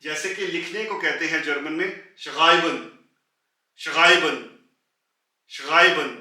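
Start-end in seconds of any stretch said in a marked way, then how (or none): 3.8-4.4 schreiben loud, with a rasped ग after the श; throaty mid R. Shown as a demonstration. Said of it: "ग की ही आवाज निकलेगी". 5.5-6.1 schreiben loud, with a rasped ग after the श; throaty mid R. Shown as a demonstration. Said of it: "ग की ही आवाज निकलेगी".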